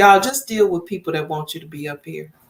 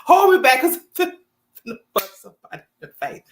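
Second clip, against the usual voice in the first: fired-up wife; 3 semitones lower, faster than usual. Retold or imitated. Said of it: "she telling him the truth".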